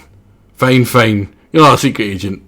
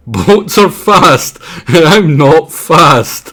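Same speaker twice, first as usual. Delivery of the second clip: slow frog voice; 4 semitones higher, 4 dB louder, much slower than usual. Acted. Voicing the frog character.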